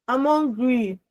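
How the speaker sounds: measured, firm statement of need; firm request. Shown as a demonstration. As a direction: say it as wanting food now. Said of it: "It means I want food now".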